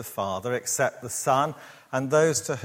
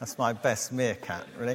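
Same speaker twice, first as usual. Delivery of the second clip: ordinary talk, nothing marked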